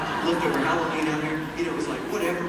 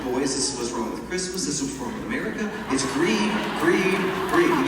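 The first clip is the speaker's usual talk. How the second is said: riled-up dad, getting louder; dad's rant; 4 dB louder than usual. Retold or imitated. Dad set off by the long line of cars, mock-angry rant. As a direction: build into an indignant fatherly tirade. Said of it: "this sets my dad off".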